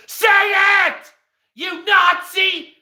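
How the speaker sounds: high, slow screamed accusation; imitated screaming. Retelling a stranger accusing a worker, high stretched screaming. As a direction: screech each part, stretched out. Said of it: "screaming at the dude like I did".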